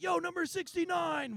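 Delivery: high-pitched imitation of a heckler; heckling. Drunk college kid heckling a player at the game, mock heckle. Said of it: "this kid is, is heckling".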